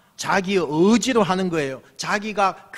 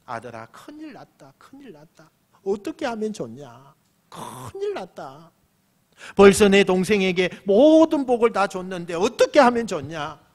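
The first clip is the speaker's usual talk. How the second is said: hushed dismay building to a louder lament; acted trembling confession; 4 dB louder than usual. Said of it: "벌벌벌 떨면서 큰아들에게 실토".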